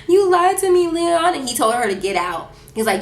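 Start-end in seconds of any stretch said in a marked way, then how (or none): 0.1-1.3 high, loud mock wail; retold tearful accusation. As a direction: imitate a crying girl wailing her accusation. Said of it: "Rosalina's crying".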